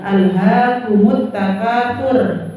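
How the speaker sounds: "takatsur" ending on a thin, light r; thin final r. Shown as a demonstration. Teacher showing the mistake to avoid, thin r. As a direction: end "takatsur" with a light tarkik r. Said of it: "Itu roh tarkik".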